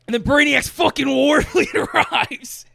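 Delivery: high, loud, stretched-out hype; over-the-top blockbuster yell; booming dramatic shout. Real, not acted. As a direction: bellow it like an epic arrival, laughing midway. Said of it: "It's so loud in the theater".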